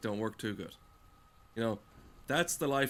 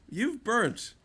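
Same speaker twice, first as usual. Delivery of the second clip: much higher, mock cheery pitch; a higher, mock-chipper voice; mocking fitness ad; 10 semitones higher than usual. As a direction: parrot the fitness marketing in a high sing-song. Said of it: "this is how they say it".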